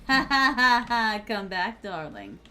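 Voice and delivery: mock villain taunt. Villain chasing a survivor.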